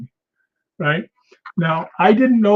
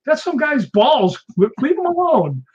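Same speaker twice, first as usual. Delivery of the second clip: Derek Mears's line; 9 semitones higher than usual. Retold or imitated. Retelling a sequel scene, Derek Mears in a high mock voice. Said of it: "Derek Mears goes".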